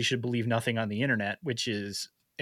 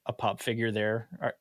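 usual speaking voice

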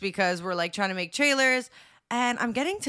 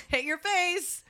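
laughing mock attack; 8 semitones higher, slower than usual. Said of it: "being like".

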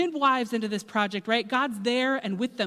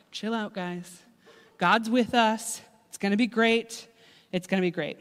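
mellow reassurance. Acted. Moses calming the people.

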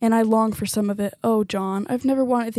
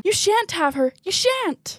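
desperate defiance; 7 semitones higher, slower than usual. Acted. Mother refuses the witch.

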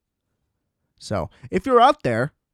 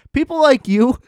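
higher, louder accusing jab; mock angry; 10 semitones higher, 5 dB louder than usual. Ranting at listeners who liked the movie, mock angry shout. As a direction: point the finger and half-shout it. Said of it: "but I'm angry".

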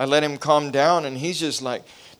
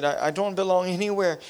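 a hint of a small boy, higher and softer; small child's voice; 4 semitones higher, 3 dB quieter than usual. Father retelling son's words, lightly voiced small child. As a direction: lightly voice a hurt little boy. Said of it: "in a four-year-old way and voice".

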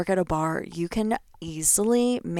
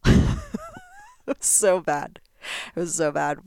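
laughing; slower than usual. Real, not acted. Laughing at blowing all the money.

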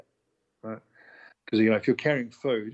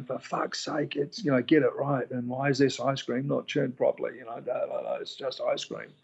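retold yelling; 3 semitones higher than usual. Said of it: "instead of yelling and screaming at people".

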